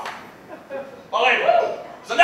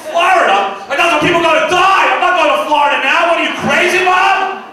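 exasperated refusal; 5 semitones higher than usual. Retold or imitated. Son shouting at his mother over a Florida visit. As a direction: scoff at the whole idea.

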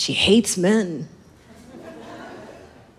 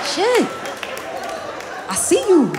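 comic shout; 10 semitones higher than usual. Retold or imitated. Yelling at a face dancer.

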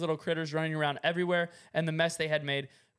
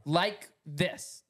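halting demo. Shown as a demonstration. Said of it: "it sounds like you're talking".

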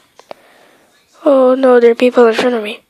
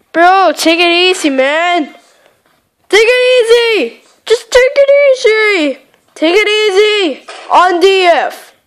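pleading; 5 semitones higher than usual. Real, not acted. Pleading with attacking player.

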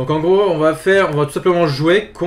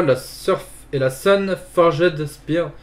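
English words in a thick French accent; much slower than usual. Real, not acted. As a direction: read the English name slowly with a French accent. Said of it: "de mon accent, euh, anglais". (anglais avec l'accent français)

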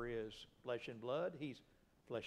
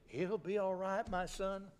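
fatherly reassurance; 7 semitones higher, 4 dB louder than usual. Acted. God reassuring his son.

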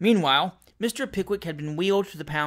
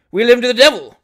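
loud, higher furious retort; angry shout; 5 semitones higher, 12 dB louder than usual. Acted. Captain snapping at his timid servant, shouting. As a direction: fling the words out in rage.

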